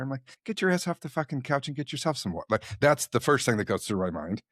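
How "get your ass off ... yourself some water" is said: retold exasperated retort; reactive father. Father reacting to daughter's water request, mock irritated. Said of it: "I can get really reactive".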